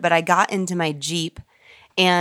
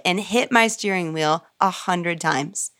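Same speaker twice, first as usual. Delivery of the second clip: ordinary talk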